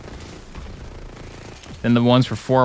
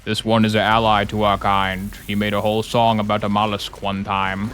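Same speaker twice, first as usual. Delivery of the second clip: king octopus voice; 4 semitones lower than usual. Pretend. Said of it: "the king octopus appears and goes".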